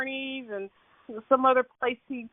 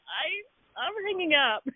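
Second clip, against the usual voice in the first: mock exasperation; 6 semitones higher than usual. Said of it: "I was like".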